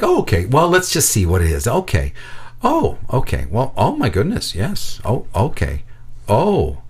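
lightly imitated nurse, composure slipping; nurse's composed tone, changing. Nurse washing blood off a boy's wound, calm turning to unease. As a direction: start breezy, then grow uneasy. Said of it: "you hear her tone change".

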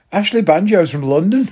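high, laughing as he says it; laughing punchline. Real, not acted. Mocking racists to listeners, said laughing. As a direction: blurt the punchline through a laugh.

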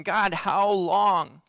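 drawn-out, mildly pleading cry; crying out to God. Acted. Preacher voices Habakkuk crying out to God, slow mild plea. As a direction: cry out slowly, stretching the question. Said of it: "Habakkuk is crying out".

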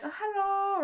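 high-pitched imitation of an Asian-accented greeting; cashier's Asian accent. Retelling a cashier's greeting at the register, imitated Asian accent. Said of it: "I copied her accent".

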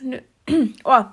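choking on a peanut; coughing after swallowing wrong. Real, not acted. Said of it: "habe mich gerade verschluckt".

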